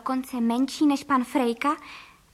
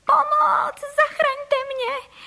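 very high, slow terrified squeal; a frightened wife screaming as she takes off; screaming for help; 14 semitones higher, 5 dB louder, much slower than usual. A narrator's reading. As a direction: squeal for help as you rise into the air. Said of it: "začala křičet".

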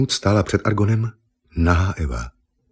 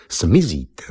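whispered verdict. Acted. Argon tells Eva she will vanish, whispering. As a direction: breathe it like a final sentence. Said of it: "řekl".

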